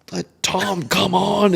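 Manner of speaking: hollering at a buddy, laughing; calling out. Retold or imitated. Riders stopping to tease Tom, calling out.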